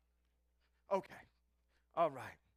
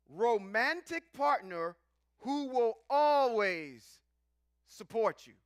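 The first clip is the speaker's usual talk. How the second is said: slow, deliberate definition read; mock-proper dictionary voice; formal dictionary reading. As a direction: read it like a formal reference entry. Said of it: "I'm gonna read it in my Oxford voice".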